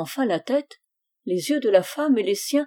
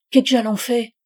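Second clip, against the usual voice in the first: peasant bishop repeating; 3 semitones higher, 7 dB louder than usual. A narrator's reading. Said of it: "L'évêque répéta".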